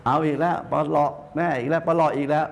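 lightly voiced complaining mother; nagging mother. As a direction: mimic a mother's endless nagging. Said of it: "บ่นมาก แฉะมาก".

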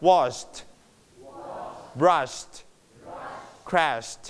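long sh, light t on "washed", "brushed", "crashed"; softened final t. Shown as a demonstration. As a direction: keep the t small after the sh. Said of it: "ถือเบาๆนะครับ".

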